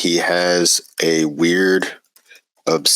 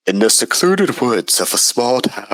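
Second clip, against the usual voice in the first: trailer voice; 4 semitones higher than usual. Acted. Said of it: "I can't do that voice".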